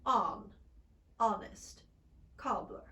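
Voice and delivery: "honest" with a rounded British o, like "onnest"; British short o. Shown as a demonstration. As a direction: round the lips slightly on "honest".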